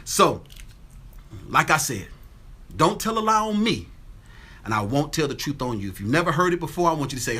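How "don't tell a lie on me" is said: catchphrase. Acted. Catchphrase call again.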